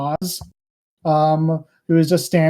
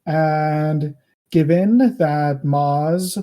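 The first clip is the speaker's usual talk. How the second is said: lightly voiced king, slow and deliberate; measured reply with long, weighty pauses; displeased king.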